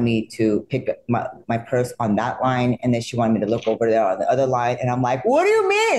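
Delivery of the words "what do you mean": confused surprise. Retold or imitated. Retells her confused first take.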